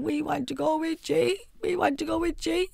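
imitating the kids begging to come; mother voicing her kids whining to come along; mock kids pleading.

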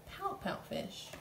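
playful high title; high repeat. Shown as a demonstration. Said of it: "and it is called".

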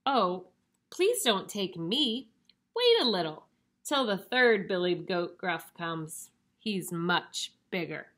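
lightly voiced middle goat, pleading; not-so-small voice. Second goat begs the troll to wait, not-so-small voice. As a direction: plead without going tiny or squeaky. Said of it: "his voice was not so small".

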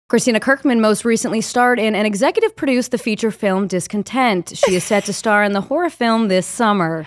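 crisp newscaster read; reporter voice. Shown as a demonstration. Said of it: "reporter voice".

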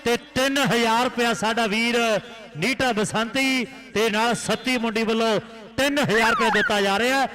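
fast, lively kabaddi commentary; frantic rural sports commentary. Real, not acted. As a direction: call the match live to the crowd.

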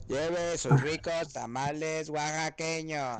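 slow sing-song vendor call; hyped fairground barker. Retold or imitated. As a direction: draw out the pitch to customers. Vendor calling out wares.

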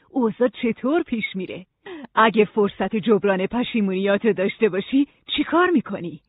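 measured, explanatory librarian voice; patient guide, lightly voiced; wise librarian guide. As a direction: lay out the rules to a newcomer.

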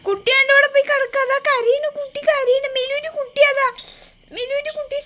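playful pretend alarm. Pretend play, doll crying.

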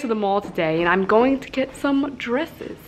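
attempted Australian accent drifting into British; Australian slipping British. Shown as a demonstration. Correcting a friend's Australian, accent wandering into British. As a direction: start Australian, slide toward British. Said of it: "I think I transitioned into British".

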